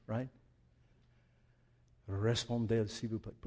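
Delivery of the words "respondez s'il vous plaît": low French accent, trailing off softly; soft demonstration of a French accent. Shown as a demonstration. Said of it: "but the accent was good".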